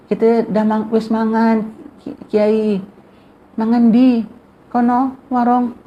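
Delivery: high-pitched, lightly acted Javanese exchange; guest's reply. Guest telling the kiai he has already eaten, high acted voice. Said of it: "Kan Dayo bilang".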